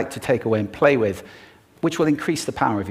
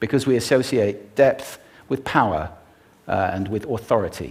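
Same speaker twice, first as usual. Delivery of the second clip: plain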